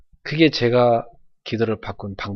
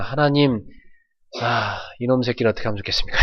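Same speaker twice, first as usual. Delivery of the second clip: fast, hushed, exasperated plea; angry whispered prayer; 5 dB quieter than usual. Shown as a demonstration. Pastor showing an angry prayer, whispered fast. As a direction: whisper the complaint to God quickly. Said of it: "너무 어떻게 화나서 열받을 때는".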